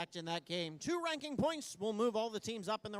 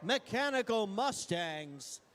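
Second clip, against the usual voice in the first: announcer call; slower than usual. Real, not acted. Announcing team name to crowd.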